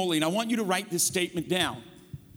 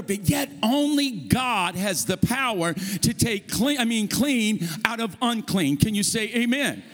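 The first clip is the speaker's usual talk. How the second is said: raised, forceful pulpit delivery; emphatic preaching; 4 semitones higher, 3 dB louder than usual. Real, not acted. Preacher urging the church to say amen, emphatic preaching. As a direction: drive each phrase home to the congregation.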